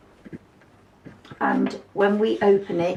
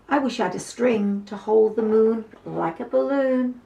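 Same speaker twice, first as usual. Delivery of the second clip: wistful little mouse; 3 semitones higher than usual. Acted. Mouse voiced in story.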